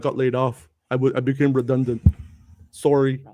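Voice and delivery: attempted light Canadian accent. A fired man meekly reporting his layoff, mock Canadian accent. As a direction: put on a mild, apologetic Canadian accent. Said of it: "that's my idea of a Canadian accent".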